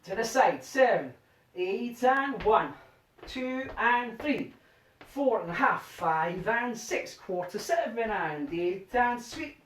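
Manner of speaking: slow rhythmic count calling; dance count calling. Shown as a demonstration. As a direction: call the steps to the beat.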